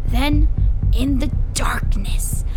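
high, loud, dramatic storytelling; excited, spooked account. Acted. Boy tells friends of dropping flashlight in darkness, excited. Boy recounts scary cave discovery.

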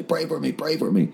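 high, pleading plea. Retold or imitated. Man imagining a late-night call to a friend, pleading. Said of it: "call my friend at one o'clock in the morning and say".

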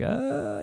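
high, soft fussy whine; small high-pitched grizzle; imitated fussing. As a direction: mimic a baby starting to fuss. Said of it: "She starts getting all like".

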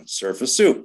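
retold call with a rising end. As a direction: call his nickname across the room. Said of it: "He calls out again".

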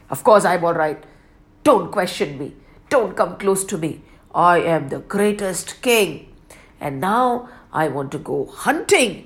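curt, dismissive royal reply; a hint of the arrogant king. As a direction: brush them off haughtily. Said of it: "King, are you all right?".

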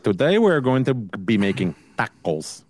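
plain English with a light Spanish "tacos"; mock accent on one word. Mocking cooks who accent one word, lightly. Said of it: "accent for one word".

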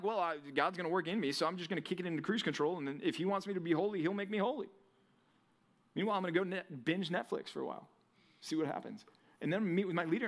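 a hint of a lazy, careless believer. Preacher mocking a lazy churchgoer, lightly careless voice. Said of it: "let go and let God kinda like".

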